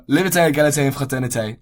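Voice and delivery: rough attempt at French pronunciation; terrible French accent. Shown as a demonstration. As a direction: recite the French slogan with an amateur French accent. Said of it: "Excuse my terrible French accent".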